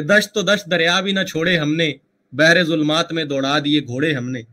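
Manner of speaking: measured mushaira-style verse delivery; verse recitation. Shown as a demonstration. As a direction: recite a famous couplet. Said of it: "एक बड़ा मशहूर शेर है".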